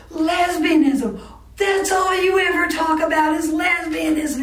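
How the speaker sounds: half-acted shout of an upset woman; retold yell. College friend yelling across the restaurant table, shouted. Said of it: "she yelled in the restaurant".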